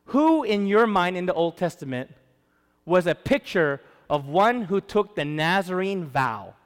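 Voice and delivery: ordinary talk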